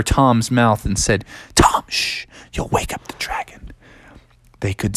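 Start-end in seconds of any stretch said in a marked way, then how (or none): 1.5-3.7 urgent stage whisper; whispered so the dragon won't hear; hushed warning. Acted. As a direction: shush him in a whisper. Hushing Tom near sleeping dragon.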